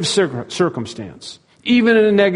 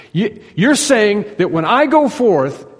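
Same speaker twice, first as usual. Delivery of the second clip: higher, slow, disbelieving echo; incredulous disciple; 5 semitones higher, slower than usual. Acted. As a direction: repeat it back as a doubting follower. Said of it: "if I'm one of the disciples".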